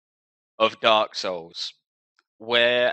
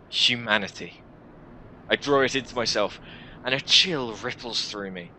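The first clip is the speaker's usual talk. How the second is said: measured first-person narration, set apart by pauses; story narration. Acted. Player character recounts drawing in humanity, story narration. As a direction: read it like a dark fantasy tale.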